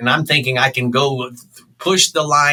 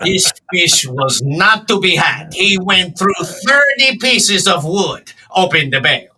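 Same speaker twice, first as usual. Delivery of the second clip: put-on Hispanic accent; 7 semitones higher, 4 dB louder than usual. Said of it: "in this Hispanic accent".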